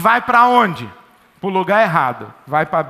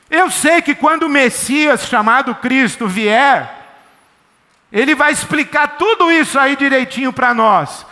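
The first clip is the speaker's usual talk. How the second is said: higher, louder eager woman's voice; a lightly voiced hopeful woman explaining; samaritan woman; 5 semitones higher, 3 dB louder than usual. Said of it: "a mulher diz assim pra ele". (mulher samaritana, mais aguda e animada)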